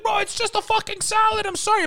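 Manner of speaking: high put-on voice of a sheepish buddy; imitating coworker. Coworker caught eating salad, high mock apology. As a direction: squeak it out like a clueless friend. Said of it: "He's like".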